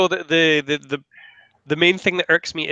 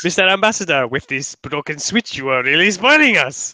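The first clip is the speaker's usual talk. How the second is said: Dick Van Dyke Cockney. Retold or imitated. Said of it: "your London accent's coming on really well".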